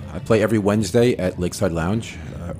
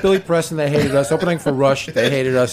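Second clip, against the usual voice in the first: excited; 5 semitones higher, 4 dB louder than usual. Real, not acted. Excited retelling of bad gigs.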